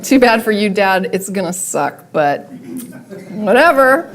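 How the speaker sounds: imitating a mildly indifferent child; lightly mocked, offhand indifference; unemotional. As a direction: shrug it off, as a kid quoted in passing. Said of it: "is unemotional about it".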